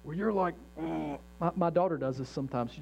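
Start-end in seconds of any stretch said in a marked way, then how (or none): 0.8-1.2 short, softer grunt of pent-up anger; mock trembling grunt. Preacher showing the congregation trembling anger, mock grunt. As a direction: imitate trembling with held-in anger. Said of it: "When you're trembling, when you get to this place".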